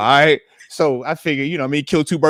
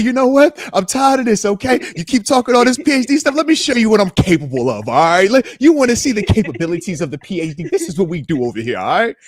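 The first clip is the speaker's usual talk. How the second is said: higher, louder show-off voice; mock bragging about her PhD; playfully voiced boast; 5 semitones higher, 5 dB louder than usual. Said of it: "She was like".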